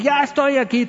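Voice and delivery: high-pitched playful wolf announcing itself; lobo del juego. Acted. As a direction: pipe up high, as in a children's game. El lobo anuncia que ya llegó. (lobo juguetón con voz aguda)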